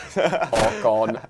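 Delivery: flat robotic monotone. Pretend. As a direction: say it like a machine. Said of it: "Thanks for appreciating the robot voice".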